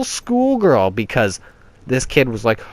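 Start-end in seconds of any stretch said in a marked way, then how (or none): 0.0-0.9 word pitched way up into falsetto; girlish squeal. Pretend. Admitting to giggling like a schoolgirl, squeaky girlish pitch. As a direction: squeak it like a little girl.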